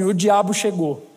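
low ominous inner voice. Retold or imitated. Voice in his head warns him, low and ominous. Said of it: "veio uma voz na minha cabeça assim".

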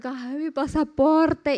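drawn-out, mock-tearful wail at normal volume; slow, whiny retelling of a tearful call; imitated crying. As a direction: stretch it out as a mild mock sob. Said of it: "le marqué a Luis llorando".

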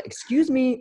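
high, sweet polite "Excuse me". Retold or imitated. Defusing the garage standoff, mock polite. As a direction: say it nicely to defuse. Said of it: "it was more like".

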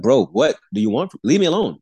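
mock-pleading to be left in peace; retold inner outburst, fed up and emphatic; exasperated. Silent irritation at being followed.

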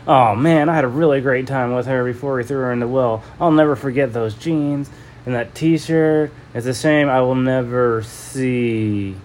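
a hint of a gloating thug; lightly voiced boastful man, slowing at the end; smug man's voice. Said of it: "kind of unrecognizable voice came walking in".

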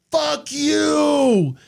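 high, biting fuck you in her voice; her mock yell. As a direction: fling it at him as she speeds past. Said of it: "she's like".

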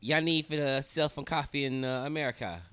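loud, high Jamaican uncle imitation; Jamaican accent. Uncle urging nephew to sell coffee, Jamaican accent. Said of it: "with a Jamaican accent".

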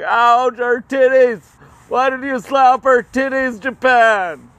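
hurt squealing America. Retold or imitated. America squealing at Japan over the slap, high loud yelp. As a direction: yelp it like a slapped, outraged kid. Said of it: "America was like".

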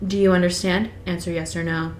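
steady storytelling read; reading Twilight aloud to a co-host; novel read aloud. Acted. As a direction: read it like an audiobook chapter.

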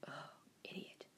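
whispered insult to yourself; silent insult. Retold or imitated. Insulting mom silently, whispered insult. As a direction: say it under your breath only. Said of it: "I'm like".

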